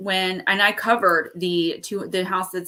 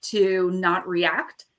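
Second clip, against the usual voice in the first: slow advice; slower than usual. Real, not acted. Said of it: "I just wanna let you guys know".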